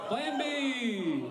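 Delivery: high, bright announce; cheery punchline. Acted. Comic to the crowd, high cheery proclamation. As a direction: sell it like a triumph. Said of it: "punchline shout".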